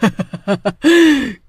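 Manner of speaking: menacing witch laugh; evil cackle. Acted. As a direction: laugh over your trapped victim.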